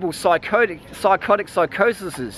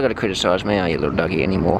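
much lower put-on voice teasing the dog; mock growly dog voice; 13 semitones lower, faster than usual. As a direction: tease the beagle in a deep playful voice.

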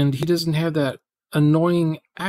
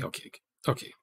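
whisper; 10 dB quieter, faster than usual. Real, not acted. Repeating okay, then whispering it.

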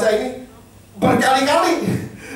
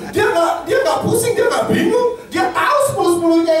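emphatic; 7 semitones higher than usual. Real, not acted. Preacher insists Jesus never doubts.

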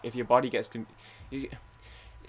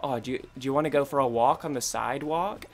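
imitating an American, questioning lift at the end; amateur American impression; mock American accent. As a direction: put on a bad American accent. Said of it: "when you guys go like".

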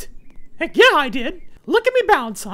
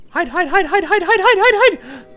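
panicked; 5 dB louder than usual. Real, not acted. Police found him.

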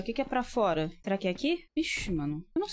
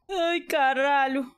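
terrified; 8 semitones higher, slower than usual. Real, not acted. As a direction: caught off guard by the scare. Jump scare in game.

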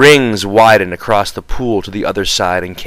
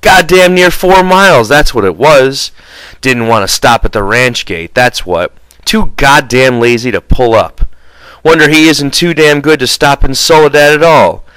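louder, higher angry rant; said angrily; 5 semitones higher, 4 dB louder than usual. Acted. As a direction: vent about the lazy driver. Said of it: "He said angrily".

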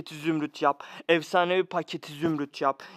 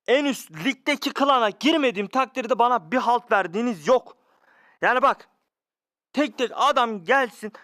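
angry complaint; 3 semitones higher than usual. Real, not acted. Angry rant at game makers.

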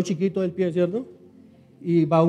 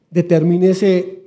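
"Determínese" louder and slow, drawn out; emphatic call; 8 dB louder, slower than usual. Shown as a demonstration. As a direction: hammer down "Determínese", slowly. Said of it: "Determínese hoy". ("Determínese" más fuerte y lento)

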